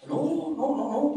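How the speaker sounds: loud, high, insistent no; loud protest. Acted. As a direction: protest it loudly. Man protests loudly.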